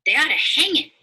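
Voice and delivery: high, loud indignant outburst; the boys cry out at the dog, high and loud. Acted. Boys react to barking dog.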